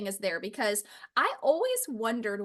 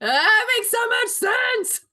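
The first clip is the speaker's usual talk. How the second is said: high, slow, amazed; awed agreement; 10 semitones higher, 5 dB louder, slower than usual. Real, not acted. Co-host reacting in high, slow awe. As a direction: stretch it out in wonder.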